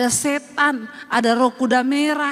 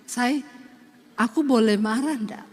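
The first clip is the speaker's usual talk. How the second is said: husband asking permission; 4 semitones lower than usual. Retold or imitated. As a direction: ask sweetly whether you may be angry. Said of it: "kalau marah gini". (suami Solo minta izin marah dengan lembut)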